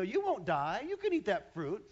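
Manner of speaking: tempter voice. Acted. Satan's voice to Eve.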